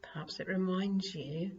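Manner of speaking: calm meditation voice with long pauses; guided meditation. Acted. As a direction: guide them gently into grounding, phrase by phrase. Leads earth element meditation.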